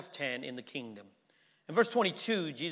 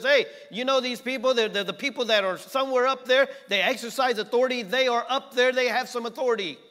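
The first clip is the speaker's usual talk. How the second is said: higher, louder, quicker; Jesus explaining; 7 semitones higher, 9 dB louder than usual. Retold or imitated. Jesus telling bickering disciples about rulers, higher and louder. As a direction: rattle it off with mounting emphasis.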